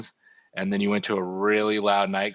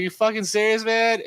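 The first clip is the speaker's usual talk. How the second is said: much higher and louder incredulous shout; retold yell; 12 semitones higher, 5 dB louder than usual. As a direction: throw the disbelief up high. Retelling yelling at artist.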